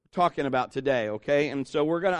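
usual speaking voice

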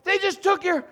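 high, loud gasp of disbelief at a stolen cart item; can't believe your eyes; shocked disbelief. Retold or imitated. Watching a shopper's item get taken, shocked and loud. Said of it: "And I'm like".

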